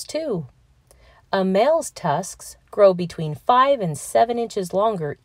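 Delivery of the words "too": a sudden high little whisper; breathy whispered tag-on; playful whisper. Acted. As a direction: tell it as a secret to the kids. Playful aside while reading.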